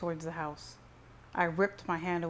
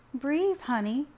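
higher, louder mother's voice; soothing mother; 8 semitones higher, 5 dB louder, slower than usual. A narrator's reading. Mother tries to calm enraged son, soothing. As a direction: urge him to settle in a high voice.

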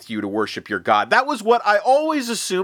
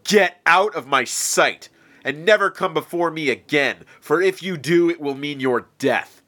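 much higher and louder furious tirade; enraged shout; 8 semitones higher, 6 dB louder than usual. Acted. Enraged Pharaoh shouting threats of death at Moses. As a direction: roar it like a god-king defied. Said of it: "enraged, shouted back".

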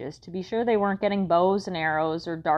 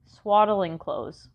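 sighed; much slower than usual. Acted. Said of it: "Mother sighed".

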